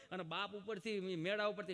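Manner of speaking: ordinary talk, nothing marked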